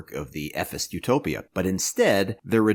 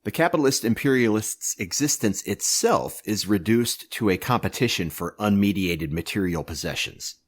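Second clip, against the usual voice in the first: solemn scripture reading. Acted. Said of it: "Here begins the reading".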